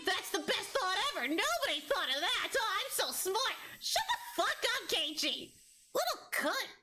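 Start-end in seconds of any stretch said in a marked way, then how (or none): 0.1-3.6 a lower, dopey mock of Keiichi's smug voice. Streamer mocks Keiichi's first idea, dopey smug mock voice. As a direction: play him as a smug know-it-all. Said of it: "And you're like".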